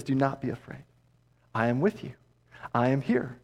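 tender reassurance. Acted. Jesus speaking to the listener, softly reassuring. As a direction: speak it close, as if to one frightened person.

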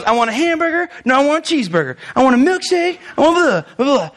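put-on bratty kid. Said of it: "He goes up and he goes".

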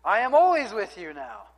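an excited preacher reading out the psalmist's turnaround; triumphant reading. Acted. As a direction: proclaim it like a victory. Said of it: "here he goes".

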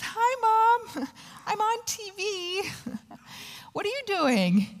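high-pitched chirpy imitation; retold daughter's greeting. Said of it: "and she says".

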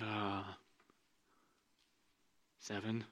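soft, hesitant mumble; sheepish answer. Acted. Disciples answering Jesus sheepishly, soft mumble. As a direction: answer like caught out.

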